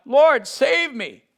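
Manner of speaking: high, slow desperate cry for help; a sinking man crying for help; cried out. A narrator's reading. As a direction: cry out as you sink. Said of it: "he cried out".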